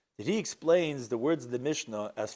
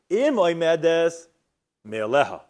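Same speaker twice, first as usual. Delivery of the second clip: slow emphatic reading; 7 dB louder, slower than usual. Shown as a demonstration. Teacher reading the Mishnah phrase slowly for his students. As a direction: read it out word by word, slowly and firmly. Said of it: "the way he says".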